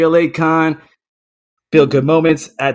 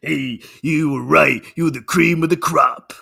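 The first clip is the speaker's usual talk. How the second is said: Macho Man line. Pretend. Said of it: "That's better".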